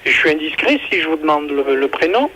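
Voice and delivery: normal talking voice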